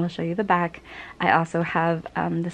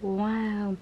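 whispered wow; 4 dB quieter than usual. Retold or imitated. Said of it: "I'm like".

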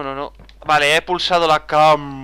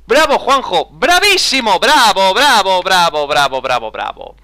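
hammed-up bravo to himself, dying away; a cheer that starts loud and trails off; mock self-applause; 2 semitones higher, 4 dB louder than usual. Cheering himself after success.

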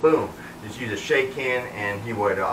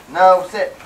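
sharp, raised correction to the dog; firm command; 7 semitones higher, 7 dB louder than usual. Real, not acted. Trainer correcting the dog with a firm, raised no. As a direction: stop him getting up, firmly.

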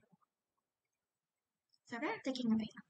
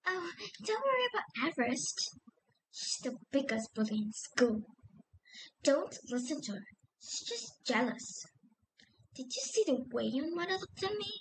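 high character voice. Shown as a demonstration. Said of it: "speak very high".

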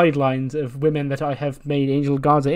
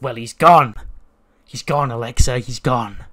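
loud declaration; 6 dB louder than usual. Retold or imitated. Breeze declares old self gone.

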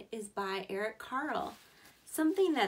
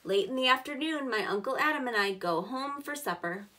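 louder, clear storybook reading; reading to children; 4 dB louder than usual. Acted. Teacher reading the boy's workday to kids, louder storybook voice. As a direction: give every step of the workday a clear read. Reads picture book aloud.

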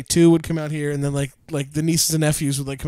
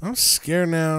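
mock scared; slower than usual. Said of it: "she literally farted and was like".

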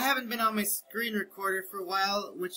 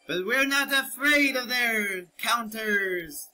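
higher-pitched hearty pirate growl; 4 semitones higher than usual. Acted. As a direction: ham it up like a sea captain. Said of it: "I will rise the Jolly Roger".

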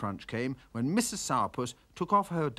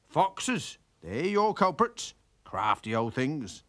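farmer; 5 semitones higher than usual. Acted. Farmer rebuffs the complaint.

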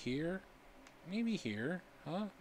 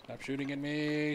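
raised protest; 2 semitones higher than usual. Real, not acted. Being shot by arrows.

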